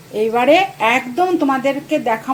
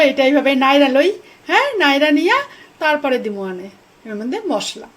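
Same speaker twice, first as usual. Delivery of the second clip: louder, cheerful Bangal dialect while stirring; 3 semitones higher, 4 dB louder than usual. Acted. Cooking for viewers in Bangal dialect, louder and cheerful. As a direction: stir and chat in broad Bangal speech. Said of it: "আজকে তোমাদের সঙ্গে না আমি আজকে পুরো বাঙাল ভাষায় করি".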